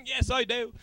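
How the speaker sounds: put-on lightly done, unconvincing British accent; awful fake British accent. Host answering as Simon Pegg on Skype, awful British accent. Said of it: "that was my awful accent".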